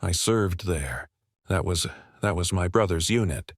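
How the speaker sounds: a touch of grief, voice breaking; breaking whisper. Acted. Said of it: "His voice broke as he whispered".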